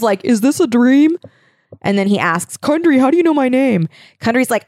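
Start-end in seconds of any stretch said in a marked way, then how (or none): 0.2-1.2 high-pitched, rising bewildered question; wide-eyed storybook disbelief; mock wonder. Acted bewildered hero in retelling. 2.6-3.9 high, hammed-up amazed question; playfully overacted bewilderment; mock astonishment. Acted astonished question in retelling.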